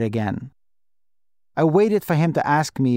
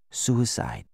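soft, hushed single word; whispered; 6 dB quieter than usual. A narrator's reading. Secretary revealing how the daughter died, whispered. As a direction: confide it in a near whisper. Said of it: "she whispered".

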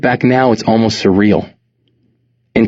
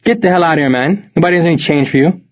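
put-on thick Jamaican accent, fast and dismissive; 8 semitones higher, faster than usual. A narrator's reading. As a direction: wave him off in a Jamaican accent. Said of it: "his Jamaican accent a little thicker than usual".

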